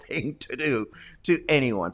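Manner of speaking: ordinary talk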